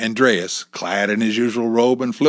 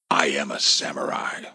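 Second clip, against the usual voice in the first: low inner voice; 6 semitones lower than usual. A narrator's reading. Character's inner self-talk, voiced low.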